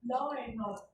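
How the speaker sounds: law and order with an r linking law to and. Shown as a demonstration. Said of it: "it will sound like".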